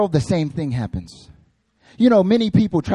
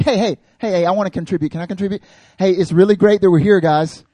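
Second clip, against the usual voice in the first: higher, louder, a needy keen voice; overeager contributor; 3 semitones higher, 6 dB louder than usual. Retold or imitated. Peter begging to contribute, overeager loud voice. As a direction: push to be included. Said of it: "He's like".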